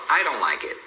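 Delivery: DON'T without its T, as "dohn"; silent T. Shown as a demonstration. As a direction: run "don't like it" together as "dohn lai-kit". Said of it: "Então você fala".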